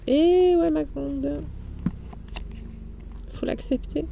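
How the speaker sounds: high gloating villain voice; mustache twirling villain. Pretend. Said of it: "j'ai un rire machiavélique".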